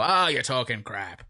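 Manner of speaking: drawn-out, dismissive grumble; Michael Parkinson. Retold or imitated. Imitating the presenter rubbishing the girl's story, drawn-out and dismissive. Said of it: "Michael Parkinson gets all".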